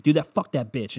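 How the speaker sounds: mild mock rant; imitated yelling. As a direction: imitate a riled-up friend venting. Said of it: "And he's just yelling".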